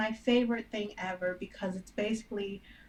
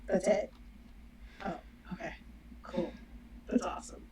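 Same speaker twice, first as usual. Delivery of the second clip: sarcastic; 8 dB quieter than usual. Shown as a demonstration. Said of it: "That's sarcasm".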